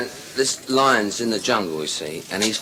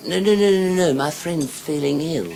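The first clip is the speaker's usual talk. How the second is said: higher, insistent denial; hurried protest; 6 semitones higher than usual. Acted. Sailor making excuses to policeman, higher flustered protest. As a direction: blurt out a string of denials.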